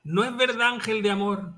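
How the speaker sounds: a lightly swooning theatrical lover, mock-dramatic; mock Don Juan Tenorio. Co-host jokes about a photo in a mock romantic declamation. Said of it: "O sea, pero en plan".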